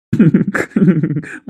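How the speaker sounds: falling chuckle; amused laugh. Real, not acted. Friend laughs at the lovesick man, falling chuckle.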